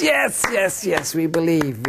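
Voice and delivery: very high eager yeses; eager crowd. Retold or imitated. Crowd answering Charlie, very high eager yeses. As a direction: shout yes like a believing crowd.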